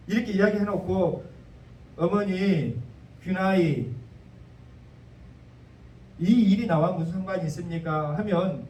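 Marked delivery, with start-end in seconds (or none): 2.0-8.2 gently respectful son; respectful reply. Shown as a demonstration. Jesus answering his mother with honor, in a gentle respectful tone. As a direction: speak as if honoring a queen. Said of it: "그러니까 봐보세요".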